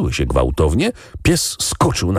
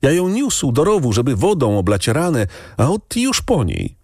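put-on grieving boy; 9 semitones higher than usual. A narrator's reading. Grieving boy voiced higher.

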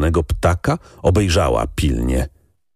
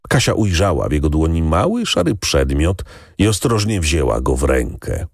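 usual speaking voice

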